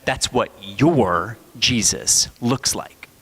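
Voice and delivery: slow, measured comeback leaning on "your"; pointed retort. Retold or imitated. Six-year-old corrects his playmate's white Jesus, slow pointed retort. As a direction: deliver a quoted retort slowly and pointedly. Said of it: "only a sharp as a knife six-year-old can".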